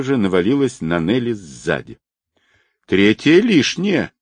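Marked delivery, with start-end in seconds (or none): 2.9-4.1 higher, slow, goofy holler; hammed-up clownish cry; clowning yell. A narrator's reading. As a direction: fool around with a silly shout. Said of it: "дурашливо завопил Виктор".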